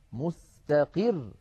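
مستقر slow, the final ra pressed hard; stress on the ra. Shown as a demonstration. Teacher slowly stressing the ra of مستقر. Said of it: "لا بد من الضغط على حرف الراء".

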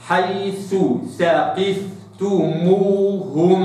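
حيث ثقفتموهم very slow, two clear ث sounds; both th sounds. Shown as a demonstration. Teacher reciting so both letters are heard. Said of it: "هكذا".

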